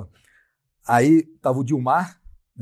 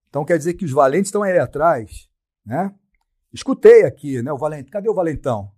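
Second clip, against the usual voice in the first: challenging shout; 3 semitones higher, 7 dB louder than usual. Retold or imitated. Challenging the tough guys.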